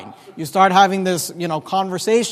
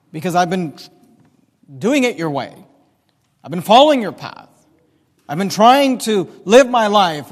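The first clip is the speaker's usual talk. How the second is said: earnest plea; 3 dB louder than usual. Acted. Continued prayer, emphatic.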